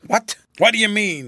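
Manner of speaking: the general jolted, demanding an answer; startled. A narrator's reading. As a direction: spin round as if shot at.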